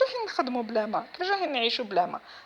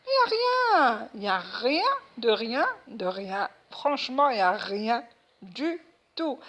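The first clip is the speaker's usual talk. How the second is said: exasperated outcry; 3 semitones higher, 5 dB louder, slower than usual. Real, not acted. To viewers about having no water at all, exasperated. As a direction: wail it out in frustration.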